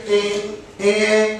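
humming with the nose pinched; nose held shut. Shown as a demonstration. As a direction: try the ghunna with fingers on the nose. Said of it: "وضعنا أيدينا أو أصابعنا على أنفنا".

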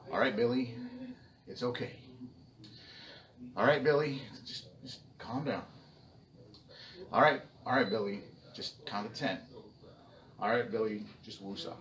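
loud, forced calm pleading; mock calm grandpa. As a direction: grandpa keeping it together, barely. Grandpa calming angry child.

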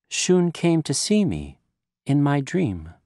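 gentle mother waking in hospital. Acted. Mother wakes, speaks softly.

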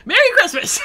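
high, laughing joke greeting. Real, not acted. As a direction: burst out laughing as you say it. Joking about recording date.

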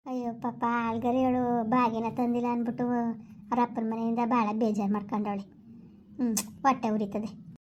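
pitying mother-in-law aside. Acted. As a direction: sigh over the poor girl to yourself.

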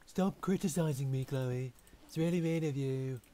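hammed-up whine at Chloe for teasing; playful loud complaint to a friend; mock indignant.

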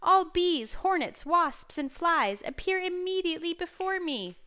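high, loud royal order; furious command. A narrator's reading. King summoning every insect to appear, furious command. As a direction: summon them all like an enraged king. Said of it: "he commanded with fury".

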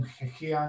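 "Chechia" said with a rough ch sound at the start, like Czech "ch"; imitating how foreigners wrongly say "Chechia", softly and dismissively; mock mispronunciation. Mocking people who claim Czechia is hard, mispronouncing "Chechia". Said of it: "že se to vyslovuje jako".

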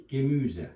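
Gemüse said as ge-MÜ-ze with a rounded ü; teacher models Gemüse with a clear long ü; German word. Shown as a demonstration. Teacher shows the class how Gemüse sounds, carefully. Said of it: "sebze demek".

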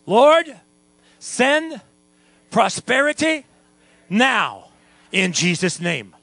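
fervent shouted prayer leading the church; loud prayer. Shown as a demonstration. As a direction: cry it out to the Lord, word by word. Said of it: "Come on, let's pray it".

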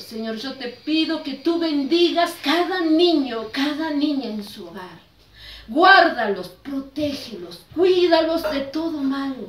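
earnest, flowing intercession; blessing prayer. Real, not acted. Prays a blessing over children.

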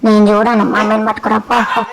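cheeky sulky pet voice; a lightly put-on sassy pet; voiced pet. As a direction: talk back like a spoiled pet. Pet talks back to owner.

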